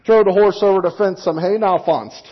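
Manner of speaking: put-on Pennsylvania Dutch accent. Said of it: "if you're a Pennsylvania Dutch".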